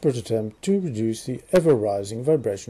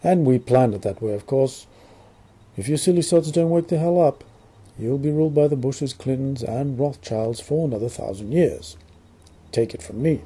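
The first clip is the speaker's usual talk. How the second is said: mock British accent. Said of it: "I'm trying to do this strange, non-existent British accent".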